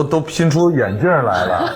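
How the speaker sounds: laughing while talking. Real, not acted. Laughs through the complaint.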